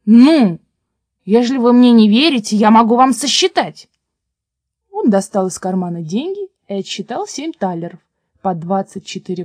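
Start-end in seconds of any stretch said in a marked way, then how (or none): 0.1-3.9 loud, emphatic, exasperated retort; loud and insistent; indignant shouting. A narrator's reading. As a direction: raise your voice to convince them. Peasant arguing loudly with frogs.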